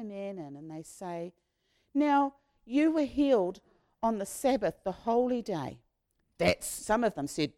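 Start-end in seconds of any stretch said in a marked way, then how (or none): 1.9-5.8 accusing officials. Acted. Leaders accuse the man.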